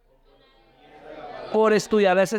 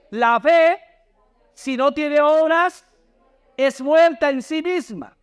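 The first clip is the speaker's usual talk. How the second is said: slow, raised, deliberate Bible reading; scripture read-aloud; 7 semitones higher, slower than usual. Real, not acted. Preacher leading the congregation through Santiago, slow scripture reading. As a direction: read it out slowly for a congregation to follow.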